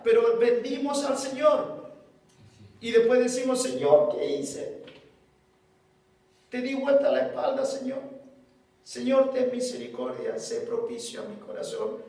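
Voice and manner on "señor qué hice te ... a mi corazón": contrite prayer. Retold or imitated. Sinner begging the Lord for mercy, hushed.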